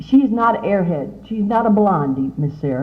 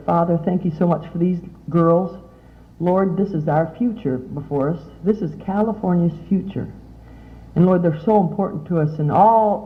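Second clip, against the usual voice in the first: prayer; 3 semitones lower than usual. Acted. A speaker closing her talk to the girls with a gentle prayer. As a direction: pray gently over the girls.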